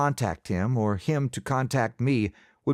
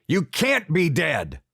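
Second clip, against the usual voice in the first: desperate yelling; 5 semitones higher, slower than usual. A narrator's reading. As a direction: shake him awake with your voice. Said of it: "Pa kept yelling at Josiah".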